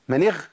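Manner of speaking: اغ said as a voiceless اخ; wrong kha. Shown as a demonstration. Teacher shows the wrong kasra ghayn in اغترف. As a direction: let اغ slip into kha. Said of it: "ما ينفعش يا شيخ".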